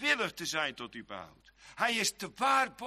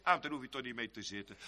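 quiet, quick shrug of a reply; a soft, offhand "never mind that"; dismissive brush-off; 8 semitones lower, 6 dB quieter, much faster than usual. Retold or imitated. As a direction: wave the question away softly and quickly. Dismissive reply to imagined objection.

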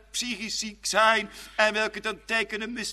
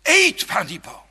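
tempting serpent; 3 semitones higher, 7 dB louder than usual. Acted. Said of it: "Hij sist".

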